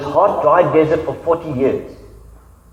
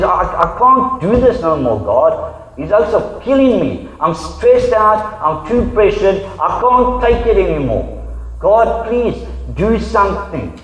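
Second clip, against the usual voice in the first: higher, slowed, frustrated pleading; frustrated plea; 3 semitones higher, slower than usual. Retold or imitated. Moses begging God, overwhelmed and frustrated. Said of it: "You can hear the frustration in his voice".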